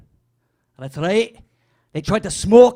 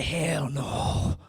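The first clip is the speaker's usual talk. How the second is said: put-on "Hell no" lower and softer in a switched accent; changed accent; 7 semitones lower, 10 dB quieter than usual. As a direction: slip into another accent on "Hell no". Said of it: "I just changed my accent".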